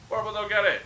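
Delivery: lightly voiced simple-minded troll, pitched a bit up; a hint of a friendly, dim troll boasting; rough troll voice. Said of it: "The troll's voice is rough and gravelly".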